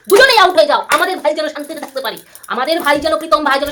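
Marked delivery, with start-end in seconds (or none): 0.1-0.8 raised, emphatic telling-off; loud scolding repeat; louder insistent repeat. Real, not acted. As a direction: push the repeat harder and higher. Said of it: "repeated louder".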